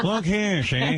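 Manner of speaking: gangster impression. Host showing how mobsters talk, gangster voice. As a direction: do a Little Caesar tough guy. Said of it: "Little Caesar, right, yeah".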